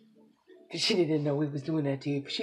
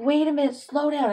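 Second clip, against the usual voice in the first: retold plea; 8 semitones higher, 5 dB louder than usual. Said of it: "I'm like".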